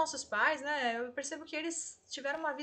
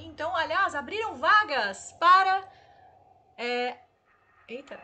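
mouth full of hot food; 4 semitones higher, 14 dB louder than usual. Real, not acted. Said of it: "Ai, tá quente, pera, pera, pera".

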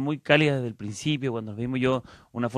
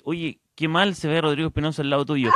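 reading through laughter; host laughing at a mocking comment; laughing while reading. Real, not acted. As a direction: chuckle through the words. Reading comment about himself.

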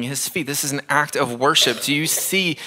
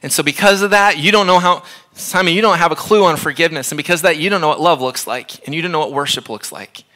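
emphatic rebuke; 3 semitones higher, faster than usual. Acted. Preacher confronts Simon directly.

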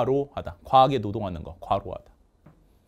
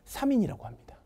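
whisper; 5 semitones higher, 6 dB quieter than usual. Acted. Sneaky buffet booking trick.

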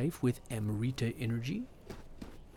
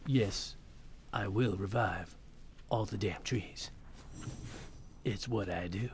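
a lightly gruff, Geralt-ish hero voice, a hint of it only; low-key gravel hero voice, lightly done; Pathfinder voice; 3 semitones lower, 4 dB quieter than usual. Player voicing his Pathfinder like Geralt, understated hero voice. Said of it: "my Pathfinder voice".

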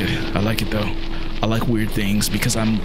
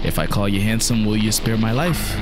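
mock sweet-talk; 3 semitones higher, slower than usual. Player sweet-talking the monster to spare his life, hammed-up. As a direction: lay on the flattery to beg for mercy. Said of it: "coming from".

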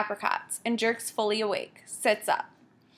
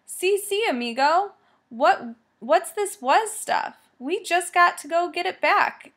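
laughing too loud; 7 semitones higher, 3 dB louder than usual. Acted. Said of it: "laughing too loud".

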